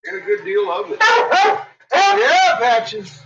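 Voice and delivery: talking to the dog in a high cooing voice. Real, not acted. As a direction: coo at the pet in a high voice.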